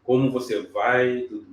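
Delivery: encouraging voice. Shown as a demonstration. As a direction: greet the client warmly to put them at ease. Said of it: "essa aí é uma voz encorajadora". (voz encorajadora, calorosa e tranquila)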